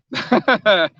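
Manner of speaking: chuckle. Real, not acted. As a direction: chuckle in a quick rhythmic burst. Amused while reading viewer comments.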